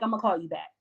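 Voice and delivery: low, soft, dry dismissal; a friend quietly hanging up on you; muttered brush-off. Retold or imitated. Friend brushing off stupid talk, low and soft. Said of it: "and they would be like".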